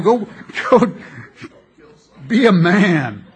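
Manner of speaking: loud bellowed command; loud exhortation. Real, not acted. Preacher ordering men to be manly, loud shout. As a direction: shout it as the climax. Climax of manliness rant.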